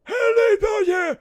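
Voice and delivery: very high, loud French squawk; French Voldemort. Acted. French villain calling hello, in a high French squawk. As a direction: squawk it in a cartoon French accent. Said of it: "A French Voldemort".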